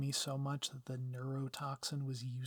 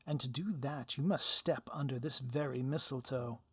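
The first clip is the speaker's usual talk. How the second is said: lightly voiced theatrical villain, smug and taunting; a hint of a gloating supervillain; 4 dB louder than usual. Villain taunts the hero over the mistletoe, lightly smug.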